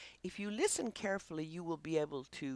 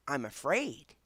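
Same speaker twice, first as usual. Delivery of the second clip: timid dog voice; 3 semitones lower than usual. Pretend. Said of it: "They say".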